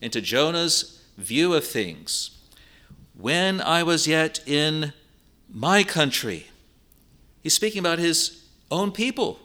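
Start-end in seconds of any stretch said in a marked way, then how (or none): 3.1-6.5 "When I was yet in my country" said slowly, leaning on "my"; slow emphasis. Shown as a demonstration. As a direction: draw it out and hit "my" in "my country". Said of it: "Here's a clue".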